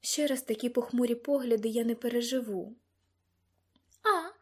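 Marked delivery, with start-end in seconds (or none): 4.0-4.3 singing out a greeting; madam's lilting little exclamation; lightly sung out; singsong greeting. A narrator's reading. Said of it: "проспівала мадам Россіні".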